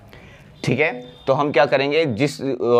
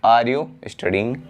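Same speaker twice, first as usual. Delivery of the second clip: slow model question; much slower than usual. Shown as a demonstration. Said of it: "क्या तुम पढ़ रहे हो".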